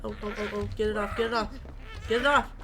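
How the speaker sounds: rapid panicked pleading; phobic panic. Real, not acted. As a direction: panic to shake it off. Caught, panicking in game.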